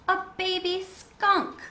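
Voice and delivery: high, slow and hushed with wonder; enchanted. A narrator's reading. Bat discovering the baby skunk, high slow wonder.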